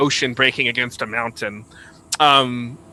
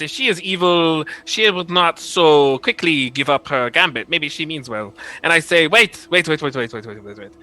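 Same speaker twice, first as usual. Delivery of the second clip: lightly voiced French-accented prince; 4 semitones higher, 4 dB louder than usual. Prince doubting the witch is evil, French accent. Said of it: "he would say this with a French accent".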